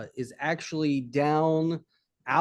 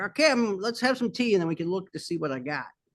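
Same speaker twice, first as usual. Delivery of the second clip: put-on old man character voice; 3 semitones higher than usual. Voicing an old man who offers the party tea: voicing an old man. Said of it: "The old man walks. He's like".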